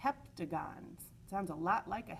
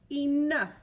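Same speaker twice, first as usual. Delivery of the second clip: exclaimed; 8 semitones higher, 12 dB louder than usual. Acted. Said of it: "thought the shape".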